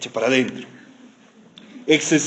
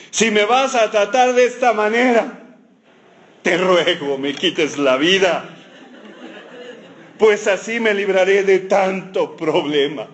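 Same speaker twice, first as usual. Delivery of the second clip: mock despairing; 3 semitones higher than usual. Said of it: "se fue llorando a su casa".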